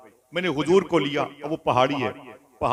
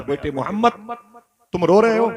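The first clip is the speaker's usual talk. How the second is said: higher, louder worried call to her son; mother's anxious call; 6 semitones higher, 3 dB louder than usual. Acted. Dying mother calling to her weeping son, higher and louder. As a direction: call out to the crying child, alarmed.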